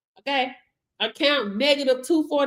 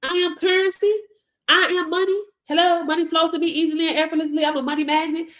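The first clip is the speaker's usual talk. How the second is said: higher, confident affirmation chant; affirmation demo; 6 semitones higher, faster than usual. Shown as a demonstration. Demonstrating affirmations to viewers, higher confident declaration. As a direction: declare it like a mantra. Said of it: "Are you scared to say that".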